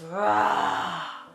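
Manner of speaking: 1 bear roar. Pretend. Teddy bear roar for kids.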